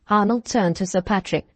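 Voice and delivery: ordinary delivery, nothing marked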